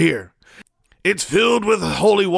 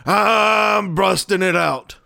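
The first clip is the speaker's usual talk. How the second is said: dramatic slow shout; 2 semitones higher, slower than usual. Acted. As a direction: boom it out like a reveal. Dramatic reveal with music.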